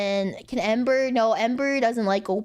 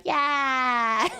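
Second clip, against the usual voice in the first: showing expression; 4 semitones higher than usual. Shown as a demonstration. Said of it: "I can be like".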